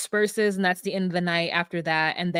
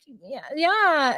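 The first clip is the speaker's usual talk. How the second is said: higher-pitched mock whine; imitated whiny agreement; 5 semitones higher than usual. Chelsea insisting to a baffled Jimmy, imitated whine. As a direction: act out a sulky yes.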